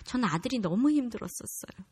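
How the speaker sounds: ordinary talk, nothing marked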